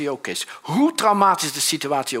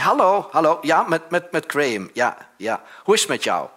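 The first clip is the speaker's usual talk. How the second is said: phone greeting; 3 dB louder than usual. Retold or imitated. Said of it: "Zegt hij".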